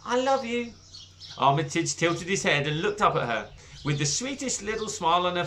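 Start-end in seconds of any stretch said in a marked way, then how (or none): 0.0-0.7 tender. Acted. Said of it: "she whispered to him".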